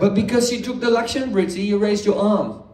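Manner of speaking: words breaking into real laughter; amused teacher laughing mid-sentence. Real, not acted. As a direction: chuckle through the line. Laughing at his own joke.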